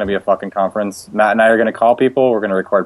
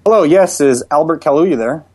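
slightly raised, polite customer-service voice; prank caller voice; 4 semitones higher than usual. Pretend. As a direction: play an HP customer-service rep, raised a touch. Prank call as HP rep.

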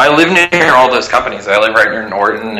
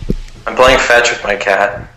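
echo. Real, not acted. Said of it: "Are you in the bathroom?".

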